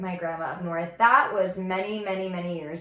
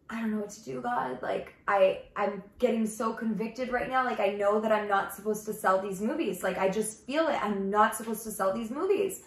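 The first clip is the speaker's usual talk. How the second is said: tearful prayer. Retold or imitated. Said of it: "And I just start crying".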